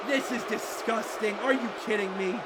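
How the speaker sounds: low, soft disbelief; subdued disgust. Real, not acted. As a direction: protest with the fight gone out of you. Commentator disheartened by foul play.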